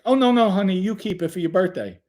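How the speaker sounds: high-pitched imitation of a fussing grandma; doting grandma refusing. Grandma tells granddaughter to keep birthday money, high and insistent.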